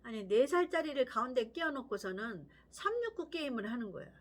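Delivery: normal talking voice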